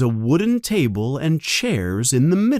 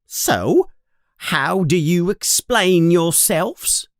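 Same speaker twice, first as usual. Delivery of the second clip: mother's stern demand; 6 semitones higher than usual. Acted. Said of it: "she looks angry right now".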